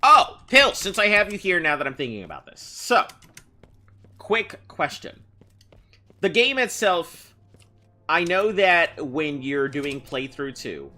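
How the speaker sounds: high, loud and excited. Real, not acted. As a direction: burst out with a sudden idea. Sudden idea, addressing chatter.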